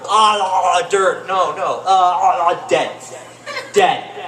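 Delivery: loud sputtering panic over dirt in mouth; mock panic. Comic imagining self, panicked at dirt in mouth. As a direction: choke out the words in hammed-up horror.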